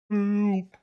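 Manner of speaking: high, far-off squeaky cry for help; high squeaky plea from the hole; tiny mouse cry for help. Acted. Mouse calling again.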